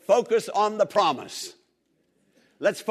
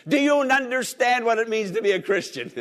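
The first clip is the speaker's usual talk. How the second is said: laughing question; 5 semitones higher than usual. Real, not acted.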